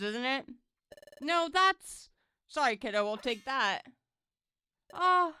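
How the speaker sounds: mock the little kids as cowards; taunting bullies. Voices two bully Pokemon stealing.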